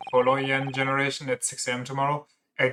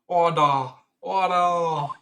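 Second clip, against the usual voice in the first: rising shouts; 4 semitones higher, 3 dB louder, much slower than usual. Acted. Judge calls court to order.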